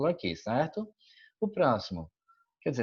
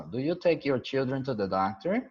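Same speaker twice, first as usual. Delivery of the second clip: put-on "do you take your children to the doctor?" with a rising question tune; question intonation. Shown as a demonstration. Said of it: "Além da entonação". ("do you take your children to the doctor?" com entonação de pergunta, subindo no final)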